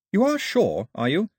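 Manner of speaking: high, timid double-check; weedy, unsure Daphne. A narrator's reading. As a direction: Daphne asking again, ashamed of her doubt. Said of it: "it sounded so weedy".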